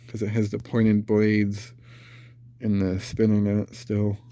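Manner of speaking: stuffy nose from a cold; congested. Real, not acted. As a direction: talk through a blocked nose. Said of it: "Sorry if I sound congested".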